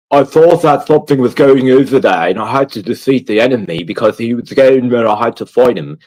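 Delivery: rambling like a dull quest-giver; game character impression. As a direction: ham up the earnest medieval game hero. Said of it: "I wanna do the impression of this guy's voice".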